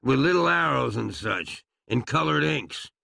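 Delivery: ordinary delivery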